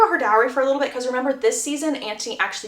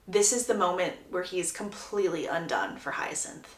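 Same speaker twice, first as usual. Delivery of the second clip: whisper; 5 semitones lower, 8 dB quieter than usual. A narrator's reading. Narrator's dramatic romantic beat.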